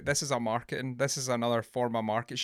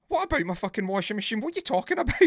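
angry retort; 7 semitones higher, faster than usual. Retold or imitated. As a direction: bristle at the caller, outraged. Gemma angry at cold caller.

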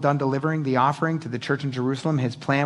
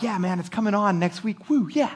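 mock excited cheer; 4 semitones higher than usual. Excited waiting for Lost.

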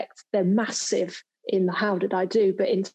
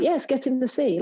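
imitating a German director's bossy "get in the sea"; light mock German accent, a bit higher; 4 semitones higher than usual. Telling her colleague Helga to get in the sea, in a mock German accent. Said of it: "like, in a German accent".

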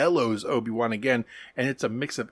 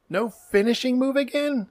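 pitched way up in exasperated disbelief; can't believe they did it again; incredulous disbelief; 11 semitones higher than usual. Real, not acted. Exasperated rhetorical question about villain.

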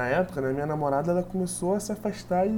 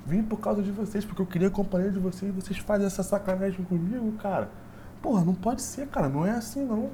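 retold angry rant; 4 semitones higher than usual. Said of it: "eu falei assim".

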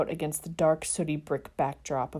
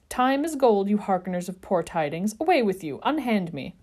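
protesting; 2 semitones higher, 3 dB louder than usual. Acted. Sirius resisting being dragged inside.

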